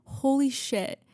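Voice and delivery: breathy whispered holy shit; stunned whisper. Real, not acted. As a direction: whisper it in awe. Whispered reaction to stats.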